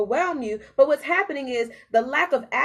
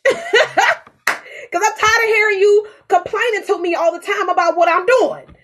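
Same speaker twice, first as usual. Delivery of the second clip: real laughter; 10 semitones higher, 9 dB louder than usual. Real, not acted. Laughing at her own joke.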